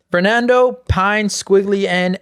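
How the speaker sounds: slow, puzzled reading of a hard name; flustered substitute teacher. Pretend. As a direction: stumble over the name like a lost substitute. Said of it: "read them like a substitute teacher".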